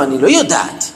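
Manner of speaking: low-pitched, mild admission of not knowing; retold teacher's low, tentative answer; unsure admission. Teacher answers a curious pupil about the Temple, unsure admission.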